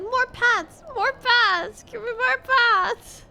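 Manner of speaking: high, loud begging voice for a pet; demanding cat. Pretend. Streamer voices the cat pestering for pats, demanding. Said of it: "She's like".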